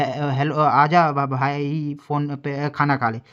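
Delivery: halting, slow words with a sudden loud jump on "आजा"; choppy, stuttering bad-line speech; distorted phone voice. Shown as a demonstration. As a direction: mimic a call that keeps dropping out. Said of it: "तो ऐसे बोलेगा".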